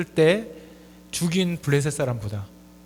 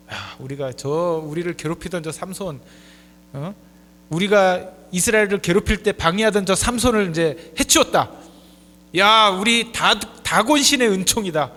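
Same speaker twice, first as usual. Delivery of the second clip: acted victory boast, building louder; gloating Philistines; 5 dB louder than usual. Philistines celebrating Samson's defeat at a feast, mildly gloating. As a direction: crow lightly over a beaten enemy.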